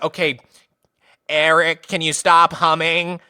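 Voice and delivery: lightly bleated teacher voice; billy goat teacher. Retold or imitated. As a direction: imitate a goat-voiced teacher, drawing out the end. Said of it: "this guy sounded like a billy goat".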